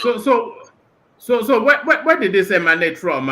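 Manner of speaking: loud, high, urgent questions; excited. Real, not acted. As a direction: burst in keen to know. Host jumps in at news.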